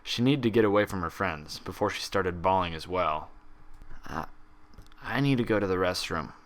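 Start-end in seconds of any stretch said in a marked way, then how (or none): 4.1-6.3 choked out. Acted. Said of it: "Twilight choked out".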